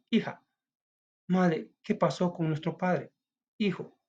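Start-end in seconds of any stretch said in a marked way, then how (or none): 1.3-3.1 put-on child's voice. Child asks about father.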